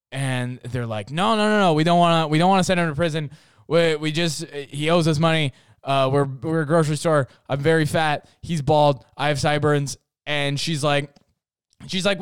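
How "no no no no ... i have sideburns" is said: flustered managers. Retold or imitated. Managers backpedal defensively.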